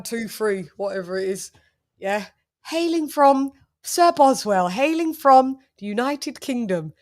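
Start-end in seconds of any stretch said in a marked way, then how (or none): 2.6-6.9 a light imitation of an upper-class British accent; mock posh British accent. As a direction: announce it like a posh English gentleman. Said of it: "family members that talk like this".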